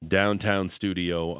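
punchy show-open announcer voice; radio announcer. Acted. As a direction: sell the station ID big.

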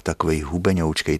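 usual speaking voice

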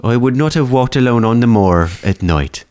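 light Irish lilt on the repeat; Irish accent. Acted. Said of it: "that was kinda Irish too".

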